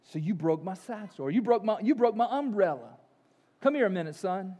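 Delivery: a hint of a stern old preacher; mildly stern, measured rebuke; lightly voiced stern Moody scolding the boy; rather stern. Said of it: "Moody said rather sternly".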